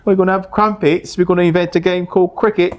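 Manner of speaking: a silly upper-crust Brit inventing cricket; mock posh British. Mocking British ancestors over tea.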